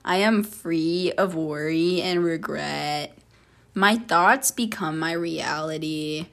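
affirmation read. Acted. Host reading affirmations to the listener, calm and steady. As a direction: read each line like a calm self-help mantra.

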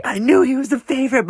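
high, loud mock whine; hammed-up outraged squeal, mimicking a sibling; very high-pitched mock tantrum; imitating pissed-off sister. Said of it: "she was just pissed".

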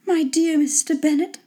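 high-pitched wife character voice; put-on high lady's voice; Mr. Bennet's wife. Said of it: "replied his wife".

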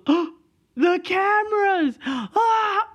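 very high, slow mimicked squeal; wife's laughing squeal. Wife remembers the security cameras, squealing with laughter. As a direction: imitate a wife squealing in hysterics. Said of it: "laughing her ass off".

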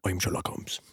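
hushed, breathy Sherlock thoughts; whispered inner monologue. Pretend. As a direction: whisper it as your own inner voice. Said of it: "this is my inner monologue".

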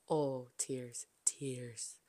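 soft unvoiced whisper; whispered tears. Real, not acted. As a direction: breathe it out, overcome. Recalling crying at premiere.

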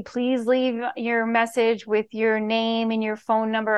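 slow, mock-serious voicemail script; really serious. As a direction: spell it out like a dull, businesslike recording. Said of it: "You make it really serious".

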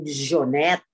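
slow, French-accented name. Shown as a demonstration. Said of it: "French accent". (may French accent)

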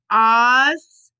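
ostriches sounded out slowly, syllable by syllable; careful pronunciation. Real, not acted. Reader correcting herself after a slip, ostriches sounded out. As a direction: draw out each syllable of ostriches, rising. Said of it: "I'm saying that so wrong".

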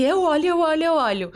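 mais agudo e alto, imitando o marido ansioso; ansioso e agitado. Retold or imitated. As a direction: repete a frase com pressa de ver o resultado. Caio ansioso para ver o teste. (imitando o marido empolgado para olhar o teste)

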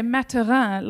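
mock French pronunciation of "Maturin", stress on the last syllable; pretentious French. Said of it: "someone really pretentious go".

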